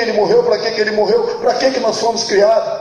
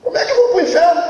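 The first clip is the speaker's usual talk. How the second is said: indignant protest; 4 semitones higher, faster than usual. Retold or imitated. Man refuses hell at gate.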